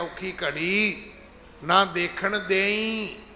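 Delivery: very slow, begging recitation, ਦੇਈ drawn out as a request; ਤਰਲੇ ਨਾਲ ਅਰਦਾਸ ਵਾਂਗ, ਬਹੁਤ ਹੌਲੀ; mock pleading prayer. Shown as a demonstration. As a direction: plead with God, mockingly slow. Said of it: "ਇਹਨੂੰ ਦੇਈ ਨਹੀਂ ਕਹਿਣਾ".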